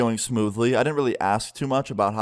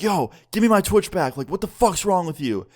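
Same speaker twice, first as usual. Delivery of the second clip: retold angry demand; 7 semitones higher than usual. Friend messages ex on Twitch chat, angry high demand. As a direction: fire it at her, high and heated. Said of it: "He's like".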